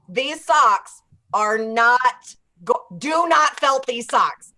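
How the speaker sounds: slow, emphatic warning, each word set apart; very specific instruction. Retold or imitated. Daughter warning dad about hand knit socks, very specific and emphatic. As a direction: lay down the rule slowly and firmly. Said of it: "told my dad very specifically".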